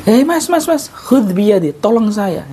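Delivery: high, pleading call for help; blind man begging help. Shown as a demonstration. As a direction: reach out to anyone nearby, high and urgent.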